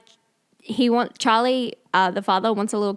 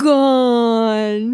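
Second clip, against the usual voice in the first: Cockney wail; 8 dB louder than usual. Retold or imitated. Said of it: "that is what she's doing the entire movie".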